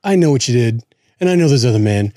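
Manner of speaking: pleading R&B spoken interlude; mock a heartbroken song monologue; an R&B group's talk part. Co-host imitating the pleading song talk, mock heartbroken. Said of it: "I hate it when the talk is".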